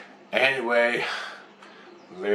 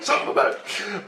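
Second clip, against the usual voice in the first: slow, breathy whisper of amazement; whispered curse; 10 semitones higher than usual. Retold or imitated. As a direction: let it out under your breath, floored. Stunned muttered curse.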